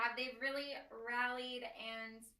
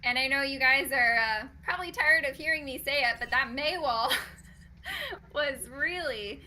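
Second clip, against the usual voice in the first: loud caster hype; 9 dB louder than usual. Real, not acted. Caster hyped over the play.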